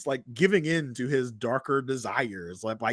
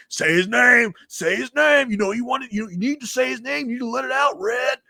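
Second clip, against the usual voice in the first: high, raised-voice taunting demand; insistent goading; 10 semitones higher, 4 dB louder than usual. Retold or imitated. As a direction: push him hard to confess, acted out. Frank goads Matt, retold.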